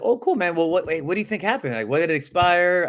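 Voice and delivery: high, upbeat curiosity; sounding excited. Acted. Agent asking why the listing expired, excited. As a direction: pitch jumping up on the opening, keenly interested. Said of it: "you have to sound excited here".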